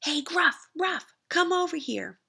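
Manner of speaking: billy goat calling his brothers over, loud. Acted. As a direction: shout across the meadow to the brothers. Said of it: "then called".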